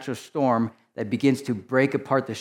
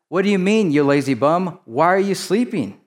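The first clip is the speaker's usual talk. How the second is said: exasperated captain; 5 semitones higher than usual. Acted. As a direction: chew out the lazy sleeper. Captain rebukes Jonah, paraphrased.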